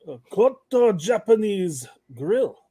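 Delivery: slow, put-on Japanese accent; exaggerated Japanese pronunciation, drawn out; mock Japanese accent. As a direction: say it slowly in an imitated Japanese accent. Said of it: "don't mock the Japanese with your accent".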